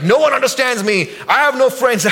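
hammed-up poor-me voice; mock self-pity. Preacher mimicking an offended lonely person.

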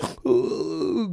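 sharp gasp. Retold or imitated.

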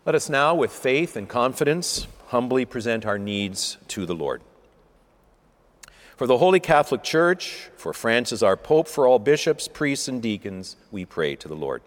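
steady liturgical reading, each petition falling to its close; intercession prayer. Acted. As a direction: lead the congregation's petitions calmly. Leads prayers of the faithful.

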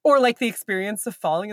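ordinary talk, nothing marked

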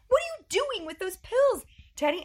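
high loud alarmed question; startled parent catching the kid. Retold or imitated. Mom retelling catching her daughter with the pill bottle, alarmed. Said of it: "and I'm like".

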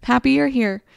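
lightly voiced dog who just loves you; happy dog voice. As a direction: voice the dog as simply glad. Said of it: "He's like".

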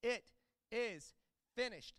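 a restrained echo of a loud cry; mild loud proclamation. Retold or imitated. Jesus proclaiming to all, only mildly loud. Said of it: "proclaims in a loud voice".

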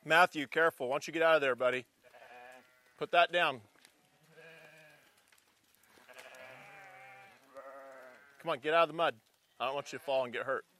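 soft, careful parental warning; quiet warning. Real, not acted. Parent calling child from mud.

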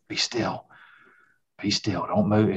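hushed, whispered warning, softly imitated; retold whisper. Father to son on a turkey hunt, whispering. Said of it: "I keep whispering to my son".

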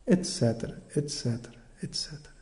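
fading from soft down to a whisper; fading away. Real, not acted. Teacher ending the list, fading to a whisper. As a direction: let each et cetera die away into breath.

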